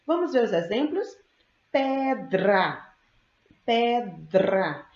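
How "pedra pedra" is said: "Pedra" said slowly, D and R sounded together; cluster sound demo. Shown as a demonstration. Teacher showing the class an example word, careful cluster demo. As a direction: say "pedra" carefully, stretching it syllable by syllable. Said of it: "Você ouve o som do D e o R".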